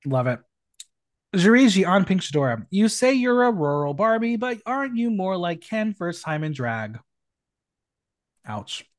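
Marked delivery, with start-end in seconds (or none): 1.3-7.0 lively, projected read-out of a roast; performed drag-roast reading. Acted. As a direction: announce the name, then deliver the jibe. Reads out contestants' roast jokes.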